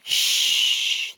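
breathy whispered hush; whispered shush. Acted. Others hush the centipede, whispered shush. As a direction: hush everyone at once. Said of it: "the others whispered".

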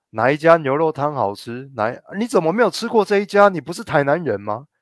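mock pushy asking. Mimicking a classmate's pushy questions.

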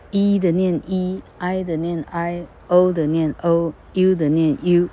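E, I, O, U each slowly said as its own letter name; vowel letter names. Shown as a demonstration. Teacher explaining silent-e spelling, E, I, O, U read slowly as letter names. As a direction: sound out E, I, O, U as long vowels. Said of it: "这时候它要元音重现".

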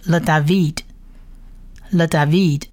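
"le David" read as le-da-VEED; blended Hebrew word. Shown as a demonstration. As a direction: model "le David" carefully, ending on veed. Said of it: "四个字母合起来就是". (希伯来语拼读“le David”)

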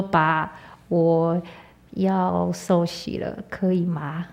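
calling father to ask about baptism, nervously soft; timid request. Retold or imitated. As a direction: tiptoe the question to a feared father. Timidly asking father permission.

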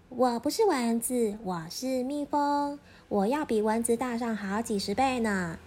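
lightly voiced little bee; protesting bee. Bee insisting to the goose, mildly protesting.

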